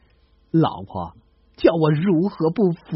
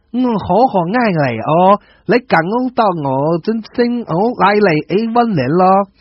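loud Cantonese-flavoured declaration; 3 semitones higher, 5 dB louder than usual. Acted. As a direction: shout it over your earphones. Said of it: "大声对女孩说".

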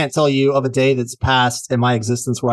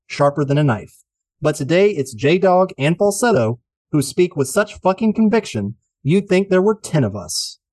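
showy rhythmic podcast host read; rhyming intro read. Acted. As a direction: perform the rhymes like a showman.

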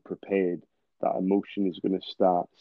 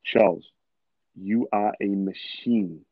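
name punched, then a very slow, certain line; slow self pep talk; slower than usual. Shown as a demonstration. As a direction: say it like you already believe it. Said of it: "Like, listen to the tonality".

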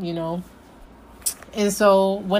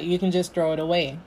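casual dismissal; faster than usual. Retold or imitated. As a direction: toss it out casually, like it is nothing. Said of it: "She's like".

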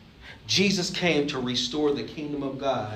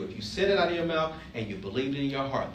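ordinary delivery

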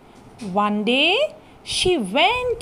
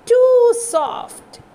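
surprised; 8 semitones higher, 4 dB louder than usual. A narrator's reading. Testing the middle bed.

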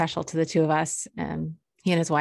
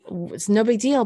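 reassuring; 3 semitones higher than usual. Retold or imitated. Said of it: "And I'm like".

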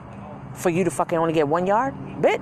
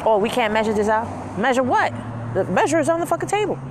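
outraged; 6 semitones higher than usual. Retold or imitated. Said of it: "mocking customer then outraged reply".

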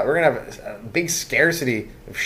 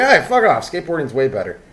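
a sudden loud, higher brush-off, then settling; mock brush-off; 4 semitones higher, 5 dB louder than usual. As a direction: snap it out like shooing off a dealer. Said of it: "You're like".

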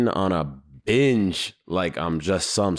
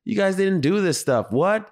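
woken from a nap, baffled, much higher; half-asleep disbelief, pitched way up; groggy confusion; 11 semitones higher than usual. Retold or imitated. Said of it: "tossing and turning like".

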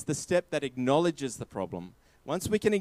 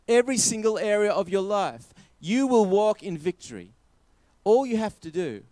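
raised, insistent preacher's promise; emphatic preaching; 5 semitones higher than usual. Real, not acted. Preacher promises victory in every area of life, emphatic preaching. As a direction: proclaim it to the whole congregation.

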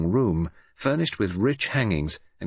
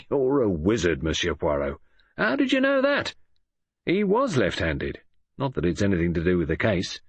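surprised inspector, then gruff; Japp voice. Acted. Japp astonished at Poirot's guess, then ruffled.

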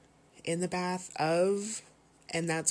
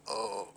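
stretching groan; 4 semitones higher, 5 dB quieter than usual. Real, not acted. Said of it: "I'm stretching right now".

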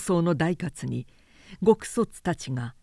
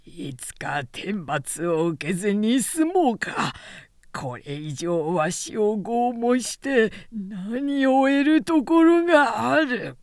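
defiant cry; 3 semitones higher, slower than usual. Acted. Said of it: "彼の方から叫んだ".

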